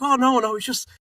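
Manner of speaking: high, dropping away in level; mock-flustered retelling of backpedalling, pitch jumping up; flustered apology. Retold apology after hurting him.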